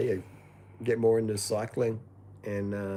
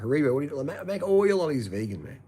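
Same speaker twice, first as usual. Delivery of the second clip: excited plea; 5 semitones higher, 4 dB louder than usual. Retold or imitated. Pleading to a brand.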